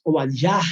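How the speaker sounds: Obadiah said as Hebrew o-ba-DIAH, not Abdías; Hebrew pronunciation. Shown as a demonstration. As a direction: give Obadiah its Hebrew sound. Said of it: "en hebreo". (Obadiah pronunciado en hebreo)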